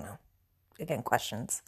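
quick whispered shrug; whispered aside. Real, not acted. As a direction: mutter it under your breath.

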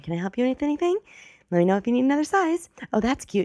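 high, rising salesperson singsong; pestering store clerk. Retold or imitated. Bored clerk offering help to shopper, high imitated sales voice. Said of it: "people are bored and they keep asking".

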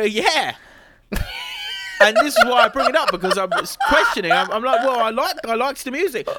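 loud, high and laughing. Real, not acted. Laughing excitedly about the band.

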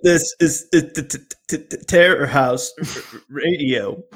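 mock stuttering announcer. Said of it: "stutters and lisps".

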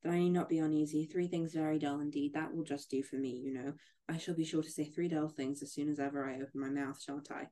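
a hint of a chattering old lady, a bit fast; good-humoured chatter, barely put on; lightly voiced Miss Bates. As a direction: rattle on cheerfully, just lightly voiced. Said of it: "most good-humoured dependence".

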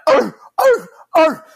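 high, loud seal barks; seal barking. Retold or imitated. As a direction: bark like a seal. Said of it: "starts going like".

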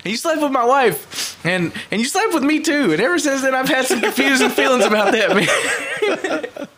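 hammed-up sincere movie quote; retold awkward confession. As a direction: play a bandmate confessing, half laughing by the end. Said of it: "another guy's like".

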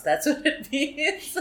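laughing. Real, not acted. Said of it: "It's naughty".

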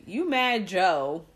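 slow drawn-out Philly phrasing, "You mad Joe." said lazily; Philly slang. Retold or imitated. Podcast host mimicking how Philly folks talk, slow Philly drawl. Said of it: "And out here, they say".

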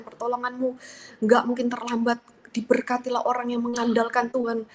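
earnest prayer of declared faith, recited in a steady flow; retold prayer. Daughter entrusts her father in ICU to God, retold earnest prayer. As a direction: retell a prayer, declaring trust line after line.

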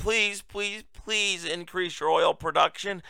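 hushed mock plea for help; pleading Biden. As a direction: plead weakly, making fun of it. Voicing Biden begging the Saudis.

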